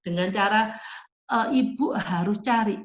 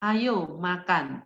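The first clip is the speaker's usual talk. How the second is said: slow, firm call to eat; firm instruction; 3 semitones lower, much slower than usual. Shown as a demonstration. Teacher showing parents how to tell a child to eat, slow and firm. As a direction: say it slowly and firmly, without shouting. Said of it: "Itu tegas".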